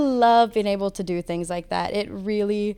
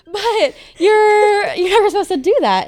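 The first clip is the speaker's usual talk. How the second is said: high, laughing and louder through the words; 11 semitones higher, 6 dB louder than usual. Real, not acted. Custodian laughing at her own joke about pointing guests away. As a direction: giggle it out while making the point.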